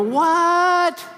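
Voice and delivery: a high, loud, startled cry of disbelief; shocked what. Retold or imitated. Disciples stunned that Jesus is leaving, a loud shocked cry. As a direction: jolt up in pitch, stunned.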